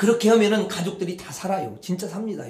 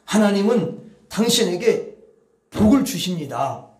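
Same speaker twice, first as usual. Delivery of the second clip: calm loving words of blessing; gentle blessing. Shown as a demonstration. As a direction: say it like a tender blessing. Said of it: "이렇게 말을 하시라는 거야".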